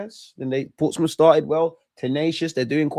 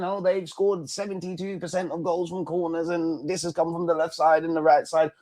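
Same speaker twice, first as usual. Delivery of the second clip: lightly voiced stat nerd reciting figures; mock nerdy analyst; 3 semitones higher, 3 dB quieter than usual. Streamer mocking goal analysts with a light nerd voice. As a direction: mimic a pedantic analyst. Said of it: "you lot do the goal analysts".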